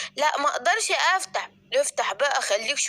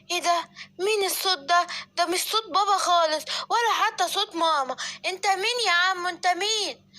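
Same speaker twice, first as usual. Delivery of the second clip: lightly voiced small child, puzzled; a little kid asking who is there; 4 semitones higher than usual. Simba asks the stranger at the door who he is, puzzled child voice.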